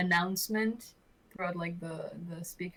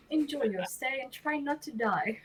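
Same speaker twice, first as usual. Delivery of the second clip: words through a laugh, higher; 6 semitones higher than usual. Real, not acted. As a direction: laugh while repeating the line. Repeats line while laughing.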